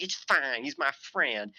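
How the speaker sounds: lightly voiced mock impression; Ken Hovind. Streamer imitating a preacher defending his friend, lightly mocking. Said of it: "you just did a Chris Chan impression".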